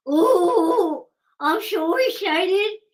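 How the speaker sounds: mock giddy. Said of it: "she's getting all giddy".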